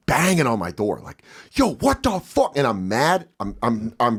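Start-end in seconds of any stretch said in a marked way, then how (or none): 1.5-2.6 high, drawn-out outraged call; re-enacted exasperated protest; indignant yell. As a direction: call out angrily at a locked door. Banging on locked door, mad.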